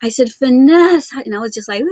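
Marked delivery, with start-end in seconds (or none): 0.3-1.1 loud, high mock wail of a name; retold bawling. Mother crying out to her daughter, mock bawling. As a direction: imitate a distraught cry-out, pitched up. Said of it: "I started bawling".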